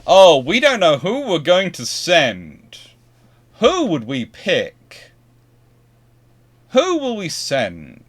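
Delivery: high, loud, slow hand-wringing; mock dithering. Mocking officials unsure who to send, exaggerated dithering. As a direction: act out a drawn-out show of not knowing. Acting out undecided selection of officer.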